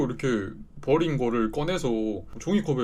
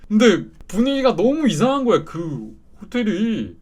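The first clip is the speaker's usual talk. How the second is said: spooked; 7 semitones higher, 6 dB louder than usual. Retold or imitated. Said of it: "나 너무 무서워가지고".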